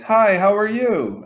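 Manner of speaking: slow, high silly greeting; funny high-pitched voice. Retold or imitated. Imitating a guy asked for his funny voice, high-pitched. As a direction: imitate a guy's comic high voice, drawn out. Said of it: "Do your funny high-pitched voice".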